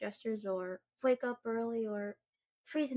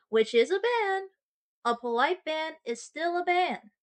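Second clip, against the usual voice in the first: mock outrage; 6 semitones higher, 8 dB louder than usual. Indignant over the bakery ban.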